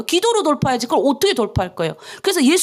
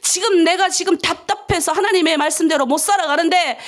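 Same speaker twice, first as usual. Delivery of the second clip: ordinary talk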